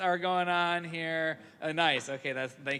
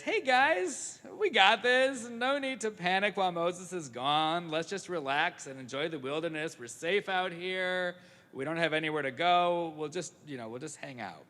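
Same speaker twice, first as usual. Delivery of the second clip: breezy lady. Acted. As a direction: wave away the worry, then drift off. Lady calms the people.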